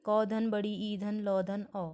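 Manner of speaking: slow, each sound of "कील" set apart; slow spelling out. Shown as a demonstration. Teacher breaking a word into sounds for students, slow. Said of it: "वैसे ही कील".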